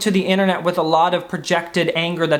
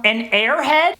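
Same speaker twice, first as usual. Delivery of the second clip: higher, rising squeaky question; testing a squeak; hunting for the squeak; 5 semitones higher, slower than usual. Shown as a demonstration. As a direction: push the voice up on the last word. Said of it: "It's in there some".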